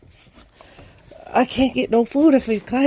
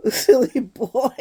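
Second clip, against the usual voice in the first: laughing; slower than usual. Real, not acted. Laughing at dog.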